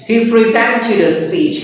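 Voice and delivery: "presented" stressed on SENT; stress on second syllable. Shown as a demonstration. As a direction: lean on the middle syllable of "presented", pri-ZEN-ted. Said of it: "stress would be on the next".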